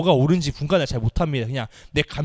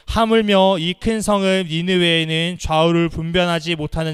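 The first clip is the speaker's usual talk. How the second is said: louder, measured Bible reading; scripture reading; 4 dB louder than usual. Acted. Preacher reads God's words to the congregation, solemnly. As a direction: read the verse with weight.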